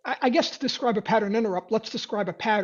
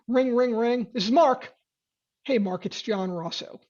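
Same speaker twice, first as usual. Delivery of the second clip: calm greeting with the pitch dropping; relaxed implied-authority call; calm, falling tone. Shown as a demonstration. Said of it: "Calm, right? tonality is going down".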